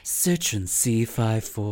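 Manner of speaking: very slow car-ad impression; Luann. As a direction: stretch out the model name in a put-on ad voice. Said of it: "like, something like that".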